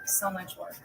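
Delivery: hushed whisper. Real, not acted. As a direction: whisper it in awe. Admiring bead work.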